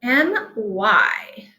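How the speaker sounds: M Y said letter by letter; teacher spelling M Y to first graders, letter by letter. Shown as a demonstration. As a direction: spell out M Y clearly for kids. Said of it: "Here's the first one".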